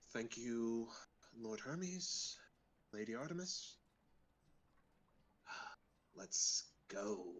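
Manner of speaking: hushed, barely voiced, very quiet muttering. Voicing a character giving a brief prayer of thanks: muttering under his breath. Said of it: "just mutter under his breath in Sylvan".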